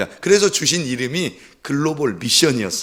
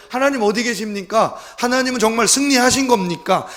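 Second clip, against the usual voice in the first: discouraged questioning; 8 semitones higher, 3 dB louder than usual. Retold or imitated. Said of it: "굉장히 낙심이 돼 있었는데".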